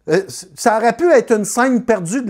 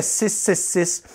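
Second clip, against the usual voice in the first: slow, softer, spooky six six six; ominous reveal; 6 dB quieter, much slower than usual. Acted. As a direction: let c'était six six six hang like a curse.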